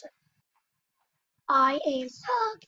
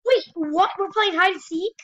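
surprised; 4 semitones higher, 8 dB louder than usual. Real, not acted. Surprised by game.

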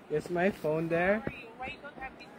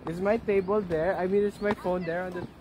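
yelling across the room; 2 semitones higher than usual. Real, not acted. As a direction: raise your voice to reach her. Calling to Mom on phone.

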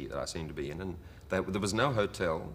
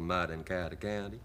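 title slurred in a Southern accent; 4 dB quieter than usual. Shown as a demonstration. Actor naming his accent coach's novel, thick Southern accent. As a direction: run Murder in Coweta County together, Southern-style. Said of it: "what kind of accent in the end?".

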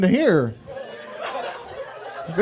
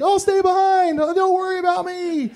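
high, noble hero voice; heroic self-sacrifice; 11 semitones higher than usual. Retold or imitated. Worker at an exploding factory, high heroic voice. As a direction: play the brave guy staying behind. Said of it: "one guy's like".

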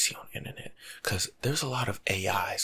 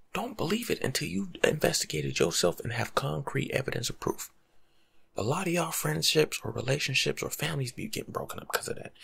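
ordinary talk, nothing marked

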